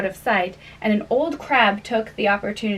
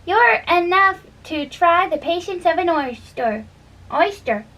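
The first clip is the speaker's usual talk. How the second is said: snappish; 7 semitones higher than usual. A narrator's reading. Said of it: "a little snappishly".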